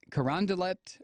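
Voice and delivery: Carondelet with the final T sounded; spelling pronunciation. Shown as a demonstration. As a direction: say Carondelet as spelled, ending "-let". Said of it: "I'm not sure if it's, uh, how you pronounce it".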